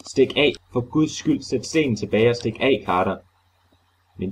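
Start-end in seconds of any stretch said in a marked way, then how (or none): 0.1-3.2 high, pleading cry to run; pitiful cry. Acted. Warren below cries to Carter to flee, a pitiful scream. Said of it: "et ynkeligt skrig".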